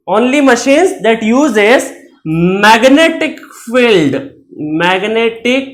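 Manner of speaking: very slow, word by word; slow dictating pace; slow dictation. Shown as a demonstration. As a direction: dictate it slowly for notes. Teacher dictating definition slowly.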